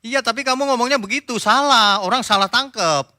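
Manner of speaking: acted-out heated reproach; mock scolding retort. Acted quarrel over a misunderstanding.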